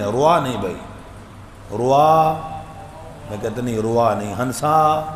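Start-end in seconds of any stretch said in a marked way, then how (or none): 0.0-2.3 روا with overly rounded lips into a w; wrong rowa. Shown as a demonstration. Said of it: "ہونٹ گول نہیں کرنے".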